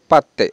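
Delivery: পাত্তে with a clear t, not d; পাত্তে, the middle sound a crisp t. Shown as a demonstration. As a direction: say পাত্তে with a firm doubled t. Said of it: "এখানে কিন্তু ত উচ্চারণ হবে".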